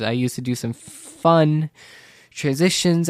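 correcting herself from transactions to transitions, stressed; corrected word stressed. Real, not acted. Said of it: "not transactions".

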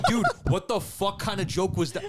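worked-up, high-pitched comic tirade; retold angry rant. Retelling his outburst at a coworker over a joke, angrily exasperated. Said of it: "I got so angry at him".

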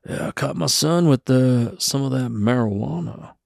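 hint of a folksy old cowpoke telling his tale; lightly voiced old cowboy. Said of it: "he acts like he's, like, an old cowboy".

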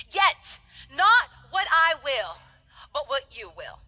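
slow, breaking with sorrow; tearful prayer. Acted. Jesus praying in Gethsemane, tearful surrender. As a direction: plead it through tears. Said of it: "deeply distressed and troubled".

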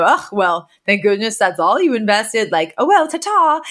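a lightly voiced careless rich father; callous and dismissive. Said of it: "super callously and out of touch".

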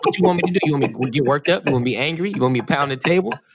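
playfully fed up; exasperated. Real, not acted. Mock exasperated retort.

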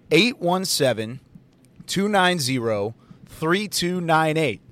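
digits spaced out slowly; slow dictation. Shown as a demonstration. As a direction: read the number so they can write it. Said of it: "I'll say it one more time".

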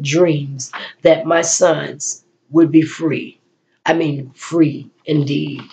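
rhythmic poetry recital, lines set apart by pauses; spoken word poem. Acted. Poet reciting a Juneteenth piece to her listeners, solemn recital. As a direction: deliver each line like a solemn tribute.

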